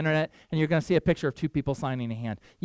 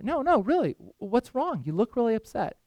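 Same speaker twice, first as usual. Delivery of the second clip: a hint of a worried child pressing the question; concerned little boy; 4 semitones higher than usual. Little boy asking the sad soldier what's wrong, lightly higher.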